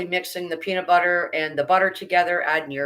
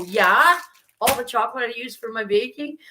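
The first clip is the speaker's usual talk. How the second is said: emphatic retold reply; 6 semitones higher, 4 dB louder than usual. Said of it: "I go".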